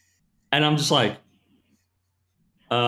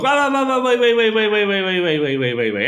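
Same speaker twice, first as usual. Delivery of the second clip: much higher and louder, falling as it goes; calling for order; 10 semitones higher, 5 dB louder than usual. Retold or imitated. New trainer calling the wild class to wait. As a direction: call out over a rowdy room, then wind down.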